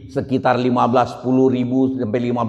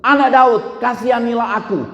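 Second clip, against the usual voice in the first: crying out; 9 semitones higher than usual. Retold or imitated. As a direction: call out to Jesus, begging. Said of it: "semakin keras ia berseru".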